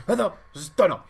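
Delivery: mock Japanese accent on Hearthstone, syllables split as hah-su-toh-nah. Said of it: "in your Japanese accent".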